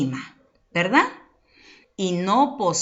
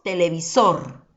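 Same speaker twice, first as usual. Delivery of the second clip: "televisor" with the final SOR given more force; stress on last syllable. Shown as a demonstration. Teacher repeating the word to prove its tonic syllable, televi-SOR in "televisor". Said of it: "mayor fuerza de voz".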